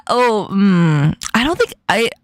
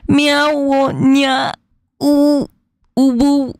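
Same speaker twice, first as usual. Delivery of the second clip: uwu sounds in a New York accent, pitched up; New York accent attempt; 3 semitones higher, much slower than usual. Shown as a demonstration. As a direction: try cat noises as a New Yorker. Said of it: "do that in New York accent".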